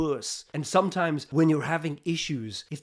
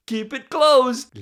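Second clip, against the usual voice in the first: louder, higher, very slow; firm inner command; 7 semitones higher, 8 dB louder, much slower than usual. Retold or imitated. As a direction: drag out the order. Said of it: "this voice is saying".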